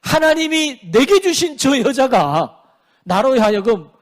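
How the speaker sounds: imitated blame-shifting; Adam making excuses. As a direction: shift the blame with drawn-out words. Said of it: "이렇게 핑계를 댄다는 거죠".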